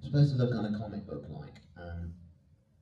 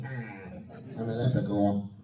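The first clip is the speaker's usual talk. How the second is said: lightly voiced leprechaun; imitating a movie leprechaun; slower than usual. Actor re-enacts a tribute with a torch, mock leprechaun voice. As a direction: do a brief mock leprechaun bit. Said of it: "in the same way they did in the movie".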